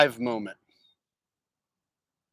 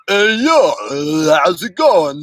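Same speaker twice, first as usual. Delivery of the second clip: a quick, lightly done Rocky greeting, louder; Stallone impression; 5 dB louder than usual. Shown as a demonstration. Showing chat how easy Stallone is, light Rocky greeting. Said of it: "all you gotta do is be like".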